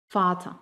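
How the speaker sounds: "Vater" ending in an open A; vocalized final R. Shown as a demonstration. Teacher demonstrating "Vater" with final R as A. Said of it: "termina como un sonido de A".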